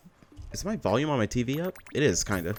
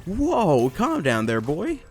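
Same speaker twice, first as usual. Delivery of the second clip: calming mock voice; 5 semitones higher, 4 dB louder, much slower than usual. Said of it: "It's like".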